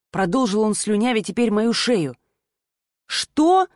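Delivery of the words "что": startled gasp of a question, pitched high; breathless what. A narrator's reading. Heroine startled by his advances, gasping high. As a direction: breathe it out in shock. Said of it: "выдохнула".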